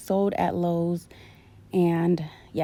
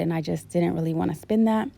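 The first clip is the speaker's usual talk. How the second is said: normal talking voice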